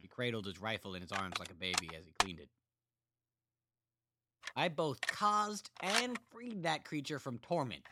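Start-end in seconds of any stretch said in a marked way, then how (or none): 4.5-7.8 higher, louder character voice; Sven telling his story. A narrator's reading. Sven telling Roger about his mother, character voice. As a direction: tell it flatly, a little too calm. Sven's voice continues.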